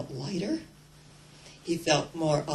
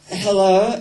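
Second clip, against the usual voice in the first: hesitant hello; 10 dB louder than usual. Retold or imitated. Man calls God on phone.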